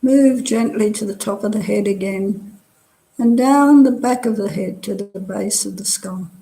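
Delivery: calm body-scan guidance with long pauses between phrases; guided meditation. Real, not acted. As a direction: guide them unhurriedly, leaving space after each phrase. Leads a meditation.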